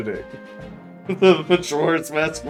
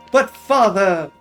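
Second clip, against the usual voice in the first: higher, pleading mock protest; protesting son; 4 semitones higher, 4 dB louder, slower than usual. Player reads the son's line to father, mock protest. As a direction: object like an earnest game hero.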